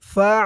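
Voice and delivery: ফা ending in a tight pharyngeal catch; hard throat ayn. Shown as a demonstration. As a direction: squeeze a hard ayn at the end of ফা. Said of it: "গলার ভিতর থেকে শক্ত হয়ে".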